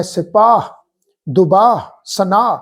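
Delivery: ਸਿਪਾਹ ਦੁਬਾਹ ਸਨਾਹ with the ਹ blended in; careful pronunciation. Shown as a demonstration. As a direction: soften the final ਹ. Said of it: "ਖਿਆਲ ਰੱਖਣਾ ਹੈ".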